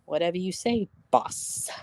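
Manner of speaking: soft sarcastic mutter; mumbled under breath. Retold or imitated. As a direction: mutter it with a sneer. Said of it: "she'd mumble shit under her breath".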